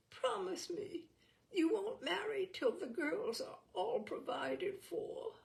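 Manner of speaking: high and faint, pleading; a dying mother begs her son to promise; weaker, high voice. Acted. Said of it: "and the voice was weaker".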